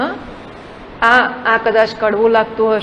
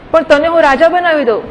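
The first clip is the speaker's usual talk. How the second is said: tempting offer; 5 semitones higher, 6 dB louder than usual. Acted. Tempter offers Arjuna a kingdom.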